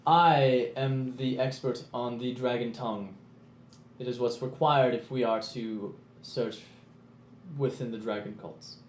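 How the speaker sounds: slow, measured in-character declaration; a lightly voiced learned dragon-tongue expert; proud scholar. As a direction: state your expertise with calm gravity. Player speaks in character.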